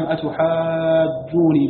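أتحاجوني with a long stretched vowel before a single, undoubled nun; light single nun. Shown as a demonstration. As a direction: draw out أتحاجوني slowly, keep the nun light. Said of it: "بتخفيف النون". (أتحاجوني بمدّ طويل ونون مخففة)

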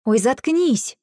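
exasperated. Acted. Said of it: "перебила я".

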